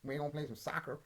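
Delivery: hammed-up American twang, leaping high on the whoops; exaggerated American sportscaster send-up; mock American commentary. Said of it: "what's this American commentary about".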